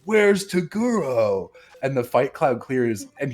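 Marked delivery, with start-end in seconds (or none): 0.0-1.5 confused call. Retold or imitated. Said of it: "and they're like".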